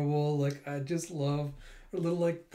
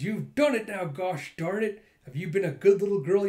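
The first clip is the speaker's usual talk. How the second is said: playful mom; 6 semitones higher, 6 dB louder than usual. Retold or imitated. Mother playfully swinging child.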